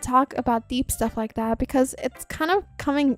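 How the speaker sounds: lightly voiced nervous schoolgirl; nervous character, stumbling on words; game character voice. Reads a game character's lines.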